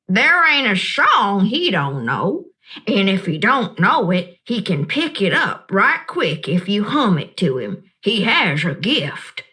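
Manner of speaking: a lightly voiced old woman, kind and knowing; Gloria Dump. Old woman reassuring the upset child, gently amused.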